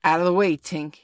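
loud warning, then easing off; shout. A narrator's reading. Toodles about to fire his arrow, shout. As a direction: shout to clear the path. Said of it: "he shouted".

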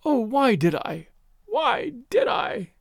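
slow, high-pitched anguished moan; acted despairing lament. A narrator's reading. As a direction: draw it out, climbing into a wail. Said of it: "she was moaning".

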